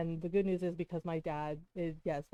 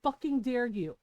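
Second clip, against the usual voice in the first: higher, louder indignant outburst; heated raised voice, acting out the confrontation; retold yell; 5 semitones higher, 5 dB louder than usual. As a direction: re-enact an outraged yell, short of full force. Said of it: "Because I yelled".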